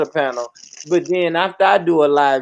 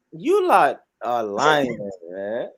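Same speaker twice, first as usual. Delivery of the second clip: Southern swang; 7 semitones lower, 4 dB quieter, much slower than usual. Shown as a demonstration. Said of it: "me put my southern swang on it".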